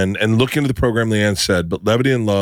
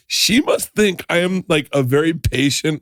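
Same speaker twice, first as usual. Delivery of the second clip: mock inner voice; 9 semitones higher, slower than usual. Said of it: "I thought".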